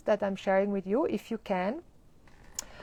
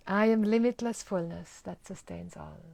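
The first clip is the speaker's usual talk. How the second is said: even, settled statement; calm affirmation. Shown as a demonstration. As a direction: say it calmly and sincerely. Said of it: "what a difference".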